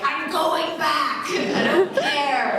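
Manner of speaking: mock defiant laughing. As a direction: declare it, giggling at yourself. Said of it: "I was like".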